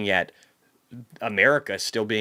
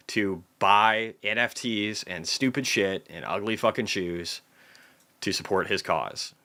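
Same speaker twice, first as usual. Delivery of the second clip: ordinary talk, nothing marked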